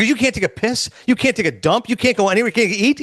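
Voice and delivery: mildly incredulous rapid-fire questions. Retold or imitated. Retelling an argument over an eight-hour parade wait, incredulous. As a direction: pile up disbelieving questions.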